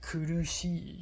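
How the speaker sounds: KURUSHI as in Japanese, unrounded U; Japanese pronunciation. Shown as a demonstration. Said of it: "teaching her, like, pronunciation".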